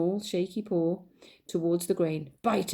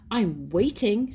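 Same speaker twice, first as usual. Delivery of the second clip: slow, stern and louder; cross and waiting; 2 semitones higher, 4 dB louder, slower than usual. Acted. Mother Mouse demanding who started it, slow stern insistence. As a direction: drag it out, waiting for an answer. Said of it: "said cross Mother Mouse".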